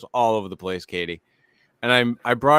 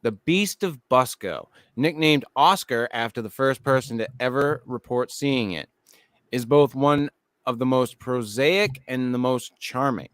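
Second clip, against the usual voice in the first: measured documentary-style narration; even, scripted storytelling delivery; article read-aloud. Acted. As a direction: read the write-up to your co-hosts. Reads a list article aloud.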